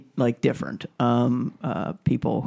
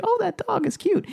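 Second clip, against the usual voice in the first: much higher cooing over a cute dog; gushing passer-by voice, much higher; high cooing dog lover. Retold or imitated. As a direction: coo like a passer-by charmed by a dog. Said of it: "they're like".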